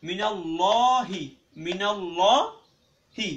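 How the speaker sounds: heavy rounded "ল্লা" in মিনাল্লাহি, held long; heavy, drawn-out lam. Shown as a demonstration. Teacher demonstrates the rule to learners, heavy long "ল্লা" in মিনাল্লাহি. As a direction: say "মিনাল্লাহি" with a thick, dark "llaw", stretched slowly. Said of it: "আল্লাহ লাম মোটা পড়তে হয়".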